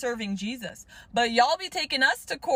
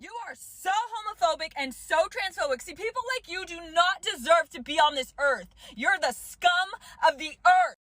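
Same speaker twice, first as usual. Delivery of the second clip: mocking a bigot. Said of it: "The delusion of wanting".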